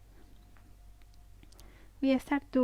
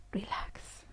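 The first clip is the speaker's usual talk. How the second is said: soft, whispered release; releasing exhale; 9 dB quieter than usual. Shown as a demonstration. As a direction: let the word out on a sigh. Releasing after the squeeze.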